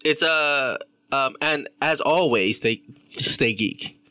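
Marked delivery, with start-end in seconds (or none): 2.6-4.0 slow drawn-out sign-off; catchphrase delivery. Shown as a demonstration. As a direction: stretch out stay geek slowly. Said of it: "See, there you go".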